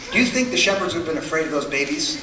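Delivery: half-laugh as you ask the joke; amused aside to the congregation, laughing softly; laughing question. Real, not acted. Joking about fat baby angels.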